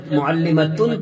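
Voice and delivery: معلمتن with the t voiced before the n ending; voweled ending with t sound. Shown as a demonstration. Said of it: "تو اس وقت اس تا کی آواز نکلے گی". (معلمتن میں تا کی آواز کے ساتھ)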